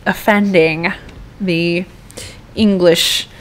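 badly faked English accent, halting towards the end; horrendous English accent. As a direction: apologize in a put-on English accent. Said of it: "with my horrendous accent".

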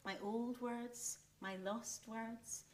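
a soft sigh over lost words; quiet. Acted. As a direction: let it drop almost to nothing.

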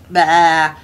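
plain, short goat "bah"; normal goat bleat. Shown as a demonstration. Storyteller showing how the goat usually sounds, simple bleat. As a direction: imitate an ordinary bleating goat. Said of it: "instead of going like".

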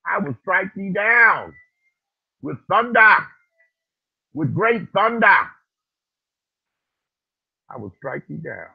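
loud, high booming divine voice; voice of God. Acted. Quoting God's warning to him, booming. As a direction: thunder it out like God. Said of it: "And said".

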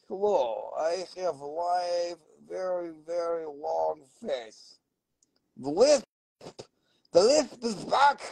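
lightly voiced long-faced stone character; talking mineral. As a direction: give the stone a playful little voice of its own. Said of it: "talking to you. It's like".

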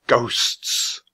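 hushed, whispered chapter title; spooky whisper. A narrator's reading. Narrator announcing the chapter on ghosts, spooky whisper.

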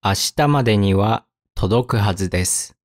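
careful, with a pause mid-sentence. Shown as a demonstration. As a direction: read it out phrase by phrase. Example read slowly, then at speed.

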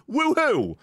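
high, drawn-out woohoo; sarcastic high-pitched whoop; mock cheer. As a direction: celebrate a tiny win, high and stretched. Mock celebration of getting through.

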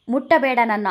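angry rebuff. Acted. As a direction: push him away with words. Bhuvi pushes him away. (ಕೋಪದ ತಿರಸ್ಕಾರ)

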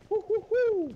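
high-pitched "hoo hoo hoo"; playful hooting. Real, not acted. Player fooling around with squad, playful hooting. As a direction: hoot it out high in quick bursts.

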